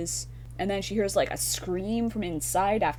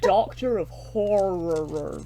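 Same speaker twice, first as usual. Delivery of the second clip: mock grand title; 2 semitones higher, 8 dB louder, slower than usual.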